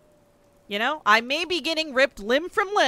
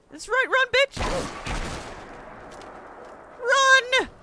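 taunting yell; 10 semitones higher than usual. Real, not acted. Gamer taunting an enemy running away. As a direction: shout after the fleeing enemy.

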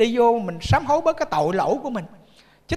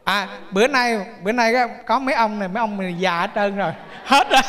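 ordinary talk, nothing marked

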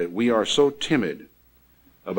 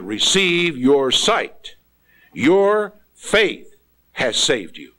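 solemn declaration; 4 semitones higher, 3 dB louder, much slower than usual. Acted. Jesus declares healing, slow and strong.

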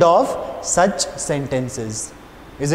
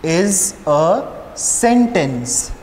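slow dictation; much slower than usual. Shown as a demonstration. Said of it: "the first question is".

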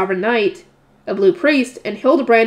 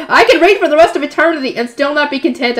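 utmost sincerity; 4 semitones higher, 5 dB louder than usual. Acted. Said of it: "speaking with the utmost sincerity".

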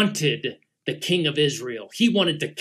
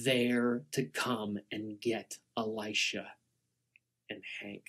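hushed suspense; 6 semitones lower, 8 dB quieter, slower than usual. A narrator's reading. Tense hushed storytelling.

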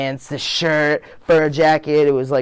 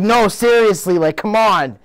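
higher, louder whiny pleading; annoyed son arguing with his mother; teen protest; 9 semitones higher, 6 dB louder, slower than usual. Retold or imitated. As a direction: push back at mom, pitched up and louder.

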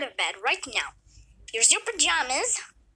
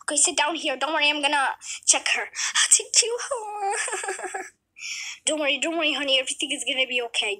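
lightly voiced doctor; faster than usual. Plays the doctor, low voice.

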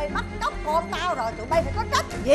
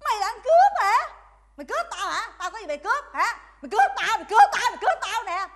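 angry, repeated challenge, pitched up in bursts; indignant scolding; 4 semitones higher than usual. Acted. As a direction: throw the accusation back at them. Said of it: "bà chửi cho bại não". (chửi vặn lại, tức tối)

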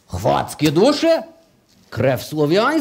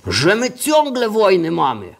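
usual speaking voice

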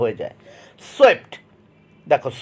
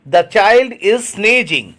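very slow, word by word; slow dictation reading; 2 semitones higher, much slower than usual. Shown as a demonstration. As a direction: read it out slowly for the class to copy. Teacher reads example sentence aloud. (ধীরে ধীরে শ্রুতলিখনের মতো পড়া)

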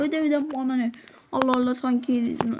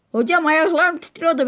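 scared outburst; 4 semitones higher, 5 dB louder than usual. Acted. Scared student tells teacher.

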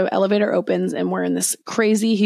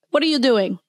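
higher, lightly put-on South African accent; imitating a South African accent; 5 semitones higher, faster than usual. Mimicking the South African stranger at the photo booth, light South African accent. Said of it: "it was his accent".

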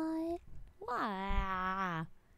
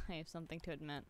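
laughing; 6 semitones lower, 9 dB quieter, much faster than usual. Real, not acted. Laughing confession to chat.

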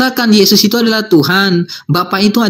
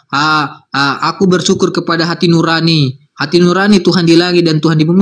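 mock prayer; 5 semitones lower than usual. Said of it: "saya pernah berkata kayak begitu".

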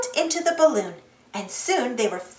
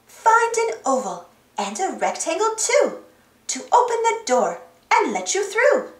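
higher-pitched, rhyming recital; reading aloud; 5 semitones higher than usual. A narrator's reading. Dora reads the book's riddle to Boots, aloud. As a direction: read the clue out to a friend. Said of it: "Dora read out loud".

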